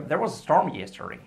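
quick linked sentence with lively tune; said quickly. Shown as a demonstration. Teacher demonstrates fast natural speech, quick and linked. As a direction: run it together, lifting STORM. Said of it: "Y dicho rápido".

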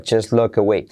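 "just look away" said as "jus lok away"; silent T in JUST. Shown as a demonstration. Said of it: "La T no se pronuncia". ("just" sin T, unido a "look away")

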